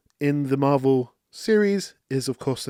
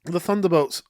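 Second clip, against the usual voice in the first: gloating villain; 4 semitones higher than usual. Retold or imitated. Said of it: "she's like".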